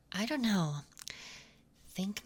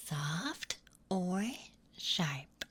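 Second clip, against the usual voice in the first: whispering; much slower than usual. Acted. ASMR whisper.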